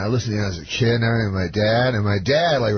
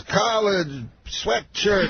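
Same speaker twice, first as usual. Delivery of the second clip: high, very slow, isolated words; Bill Cosby; 9 semitones higher, much slower than usual. Retold or imitated. Star explains his outfit in lone words, drawn out high. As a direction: stretch each word out in a high mimicked voice. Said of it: "He talks, like, just in words".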